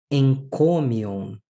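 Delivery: slow "encomion" with a nasal n before the k; nasalized gamma. Shown as a demonstration. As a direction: draw out "encomion", stressing CO. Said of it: "ele vai sofrer uma alteração fonética".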